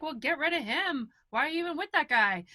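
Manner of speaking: indignant mother-in-law. Retold or imitated. Mother-in-law reacting to complaint.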